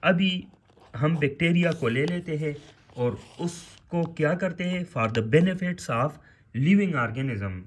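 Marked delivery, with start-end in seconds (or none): 5.0-7.6 dictation. Shown as a demonstration. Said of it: "dictating definition".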